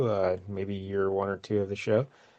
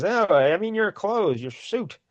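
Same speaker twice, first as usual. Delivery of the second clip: acted exasperation; 9 semitones higher, slower than usual. Commissioner corrects Howard's misunderstanding.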